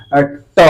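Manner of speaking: "ट" with the tongue curled up to the roof of the mouth; isolated "ट" sounded for students to copy; retroflex demo. Shown as a demonstration. Teacher has students feel the roof-of-mouth sound, demonstrative retroflex. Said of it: "अर्थात जैसे बोलिए".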